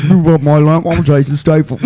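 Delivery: a tough-guy genie, only lightly put on; Statham as a genie. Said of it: "Here's Jason Statham as a genie".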